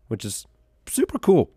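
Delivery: ordinary delivery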